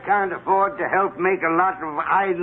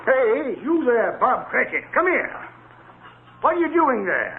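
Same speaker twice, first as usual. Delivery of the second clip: calling out; 9 semitones higher than usual. Acted. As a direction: summon the clerk sharply from afar. Scrooge calls clerk from office.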